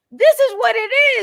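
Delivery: shrill, very loud, high-pitched full-volume yell. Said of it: "yelling at her".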